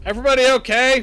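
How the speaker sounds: high, loud, fast soldier imitation; mocking soldier voice. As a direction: squeak it out like a mocked soldier. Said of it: "Don't have a very deep voice?".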